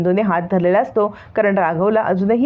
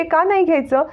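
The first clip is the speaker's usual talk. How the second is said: a touch of indignant anger, higher at the start; mildly angry demand for answers; lightly acted anger, pitch jumping up on the first questions; 5 semitones higher than usual. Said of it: "Anvi चिडते".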